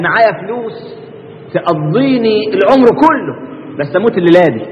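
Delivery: slow, deliberate retelling of the man's words; slow quote. Retold or imitated. Preacher quoting the rich man to the congregation, slow. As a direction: lay out the boast slowly. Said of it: "زي الراجل اللي قال لهم إيه".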